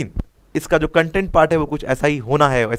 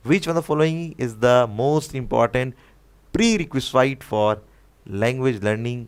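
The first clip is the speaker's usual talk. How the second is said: very slow, word by word, as if dictating to the class; slow question reading; much slower than usual. Shown as a demonstration. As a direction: read the exam question out at a crawl. Teacher reads exam question slowly.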